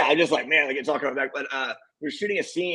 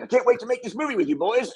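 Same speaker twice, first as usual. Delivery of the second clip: higher mock Mel; 9 semitones higher than usual. Mel quoted warmly, pitched up.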